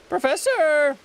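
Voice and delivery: high, loud cry for the professor; high-pitched, urgent hail; calling out. Acted. Character calls out to professor.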